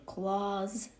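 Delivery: "claws" drawn out slowly with a short O; slow, isolated "claws"; sounded-out first syllable. Shown as a demonstration. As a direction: stretch "claws" out as a lone syllable. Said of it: "This would say claws".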